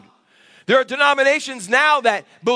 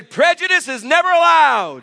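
higher, punchy proclamation; emphatic declaration; 5 semitones higher, 3 dB louder than usual. Shown as a demonstration. Pastor having the congregation repeat after him, emphatic declaration.

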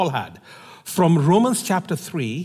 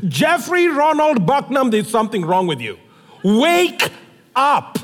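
mock scolding; 3 semitones higher than usual. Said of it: "call him by his three names".

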